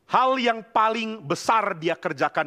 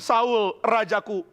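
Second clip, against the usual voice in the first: mild retold anger, raised pitch; angry reproach; 5 semitones higher than usual. David to his king who hunts him, mildly angry reproach. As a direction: plead indignantly, acting out the protest. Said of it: "Lalu Daud marah kepada Saul".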